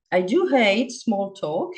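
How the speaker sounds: slow and firm, owning the words; bold statement. Real, not acted. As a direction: declare it boldly, slowly. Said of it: "I'm saying that boldly".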